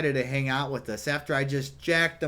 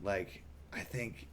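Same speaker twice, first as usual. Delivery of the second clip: whispering; 11 dB quieter than usual. Retold or imitated. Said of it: "whispering to me kinda".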